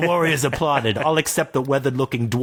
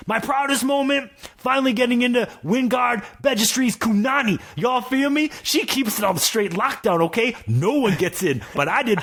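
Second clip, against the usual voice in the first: tough dwarf; 11 semitones higher than usual. Acted. Dwarf continues.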